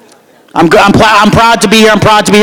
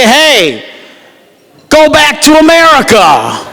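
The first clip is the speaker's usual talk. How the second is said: mock relatives' yell; 5 semitones higher, slower than usual. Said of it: "They say".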